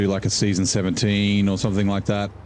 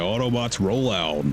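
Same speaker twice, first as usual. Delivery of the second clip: a half-hearted robot hero command; Peter Cullen impression. Retelling the Optimus Prime bit to chat, light Optimus impression. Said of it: "my Peter Cullen impression".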